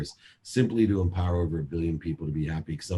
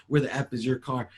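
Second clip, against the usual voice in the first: higher, hammed-up yelling dad; mock yell; 6 semitones higher than usual. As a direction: snap it out as an angry father. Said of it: "Why are you yelling at me".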